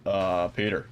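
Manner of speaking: a hint of Joe calling out to Peter. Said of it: "that's the only Joe line I got".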